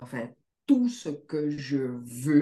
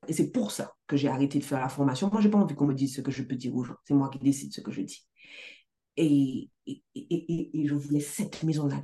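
ordinary talk, nothing marked

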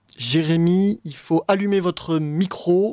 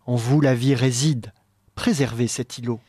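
measured, lower theatrical poem reading; poem recitation; 3 semitones lower than usual. Acted. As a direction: recite it like a stage role. Reads the poetic dialogue aloud.

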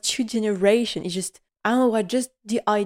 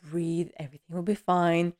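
mock calming self; 4 dB quieter than usual. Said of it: "she tries to stay calm".

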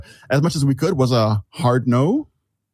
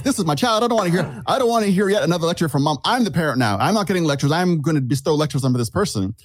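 put-on indignant young parent; 4 semitones higher than usual. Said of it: "I was like".

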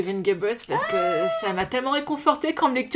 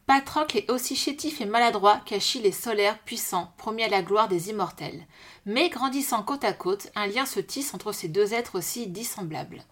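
reading aloud. Acted. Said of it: "je vais peut-être lire la quatrième de couve".

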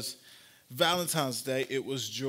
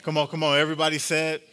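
louder rallying call to the crowd; urging call; 4 dB louder, faster than usual. Real, not acted. Preacher coaxing an amen from the congregation, urging louder. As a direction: prod them for a bigger response.

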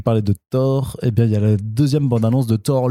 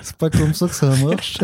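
fake Quebec accent; 3 semitones higher than usual. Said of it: "l'accent de Québec".

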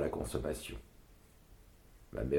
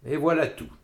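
triumphant mother, higher and louder; victorious; 9 semitones higher, 6 dB louder than usual. A narrator's reading. Mother announces her victory to the rabbi and woman. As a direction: crow the result like a winner. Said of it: "d'un ton victorieux".

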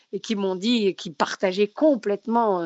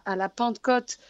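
Pentecôte with a southern French accent; a slip of southern French accent on Pentecôte; 2 semitones higher, 4 dB quieter than usual. Real, not acted. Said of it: "j'ai eu une belle pointe d'accent du Sud".

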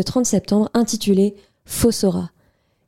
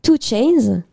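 English accent. Shown as a demonstration. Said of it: "avec mon accent anglais également de qualité".

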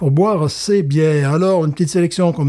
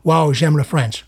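mock American accent; slower than usual. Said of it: "j'ai appris un peu l'accent américain".

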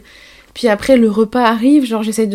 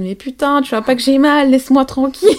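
mildly raised, irritated retort; retold snapping at partner; 4 semitones higher, 3 dB louder than usual. To her partner playing music in labour, irritated mock snap. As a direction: replay telling him off, a bit higher. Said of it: "je l'avais envoyé chier".

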